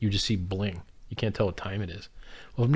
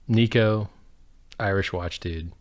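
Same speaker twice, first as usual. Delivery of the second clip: calling out; 6 dB louder, slower than usual. Real, not acted. Calling out to a YouTuber.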